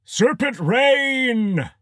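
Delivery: long, high, drawn-out spell shout. A narrator's reading. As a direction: call the spell slowly to the sky. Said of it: "John shouted".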